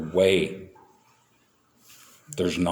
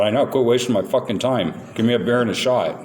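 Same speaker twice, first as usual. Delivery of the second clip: mildly raised, impatient barking at the bartender; gruff demand; 3 semitones higher than usual. Retold or imitated. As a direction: snap it out like a pushy drunk. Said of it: "that's how I would say it".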